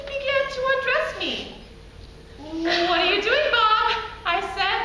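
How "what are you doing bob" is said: raised pitch, mild comic alarm; slightly panicked objection; alarmed protest. Acted. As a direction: question him uneasily. Alarmed woman as Bob undresses her.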